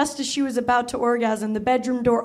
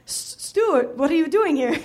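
higher, stammering granny voice; flustered old nanny; 3 semitones higher than usual. Acted. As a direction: caught out, fumble the name. Nanny caught in the act.

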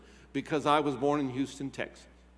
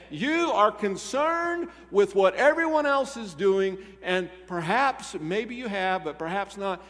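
higher, louder impassioned preaching; fervent preaching; 7 semitones higher, 3 dB louder than usual. Real, not acted. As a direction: press the congregation hard. Preaching at full force.

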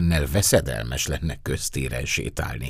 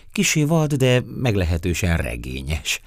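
starts high and louder, easing down; lightly amused, high opening; smiling reply; 5 semitones higher, 4 dB louder than usual. Acted. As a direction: answer with a smile in the voice. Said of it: "felelte elmosolyodva".

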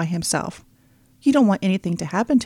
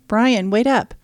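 yelled; 4 semitones higher, 4 dB louder, slower than usual. Acted. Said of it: "Maya yelled".

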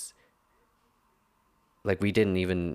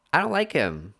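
venting about a rude lab partner, fired up and higher; heated rant; 6 semitones higher than usual. Real, not acted. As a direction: let the irritation spill out. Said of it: "I said I wasn't gonna rant".

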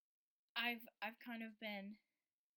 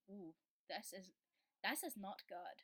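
badly faked Irish accent; half-hearted mock Irish accent. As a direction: attempt an Irish accent and miss. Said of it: "that was a really bad Irish accent".

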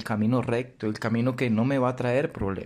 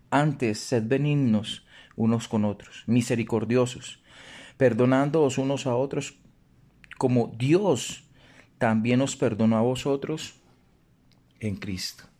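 scripture reading. Acted. Reads the Ephesians verse aloud.

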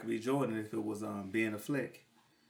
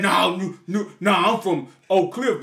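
laughing mock; 2 semitones higher, 5 dB louder, slower than usual. Mocking a Dallas local.

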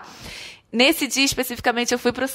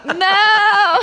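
loud, high laughing "Não!"; real laughing outcry; laughing protest; 10 semitones higher, 6 dB louder than usual. Real, not acted. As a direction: cry out in amused dismay. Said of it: "protest at disaster topic".

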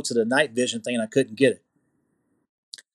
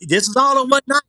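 excited; 9 semitones higher, 4 dB louder than usual. Retold or imitated. Host marvels at the night.

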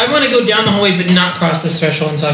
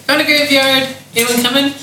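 higher-pitched call to the group; open, raised-pitch announcement instead of a whisper; unwhispered call; 7 semitones higher than usual. Pretend. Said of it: "not gonna whisper everything into this mic".

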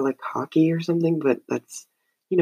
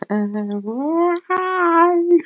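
laughing. Real, not acted. Breaks off laughing at himself.

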